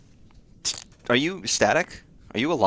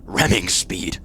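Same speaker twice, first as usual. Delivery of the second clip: whispered order; 5 semitones lower, 5 dB louder, slower than usual. Pretend. Acting a sailor ordering ramming speed.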